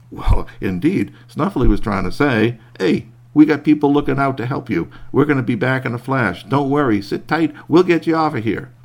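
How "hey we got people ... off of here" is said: bear voice. Acted. Bear voiced reassuring the man.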